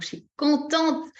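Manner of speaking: high, drawn-out delight; glowing, lifted delivery; demonstrated happiness. Shown as a demonstration. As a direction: really show that you are pleased. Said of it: "Vraiment, faut que ça se voit".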